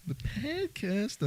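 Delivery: "the podcast" drawn out Boston style; slow Boston "podcast"; Boston accent. Shown as a demonstration. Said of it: "break out the Boston accent".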